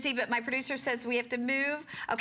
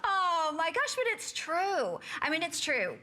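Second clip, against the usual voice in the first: high, cracking cry of emotion, slowed; overcome, blurting it through tears; tearful outburst; 6 semitones higher than usual. Real, not acted. Co-host moved by heirloom story, crying out high and slow.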